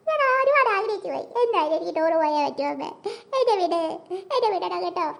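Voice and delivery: put-on whimpering child begging to go on the trip; crying child. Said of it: "അയ്യേ, കരയല്ലേ".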